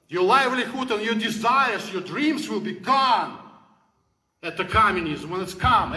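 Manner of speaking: preaching shout. Real, not acted. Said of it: "I think I screamed too much today".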